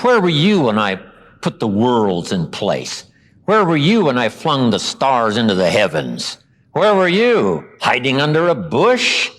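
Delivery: lightly acted divine challenge, building at the end; mock-grand telling-off; sarcastic rebuke. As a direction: press each question home, mockingly. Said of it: "A bit of sarcasm".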